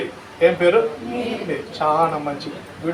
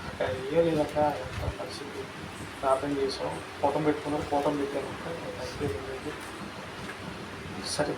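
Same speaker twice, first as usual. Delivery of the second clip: much softer, lower secretive voice; hushed whisper; 4 semitones lower, 10 dB quieter than usual. Retold or imitated. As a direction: whisper so the family can't hear. Nurse whispering secretly to pastor. (రహస్యంగా గుసగుసలాడే nurse)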